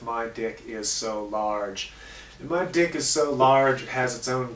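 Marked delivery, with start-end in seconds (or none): 0.0-1.9 slow, deliberate segment title; slow title read. Shown as a demonstration. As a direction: announce the title slowly. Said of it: "we always end the High Def Skimp Killer Show in High Def with".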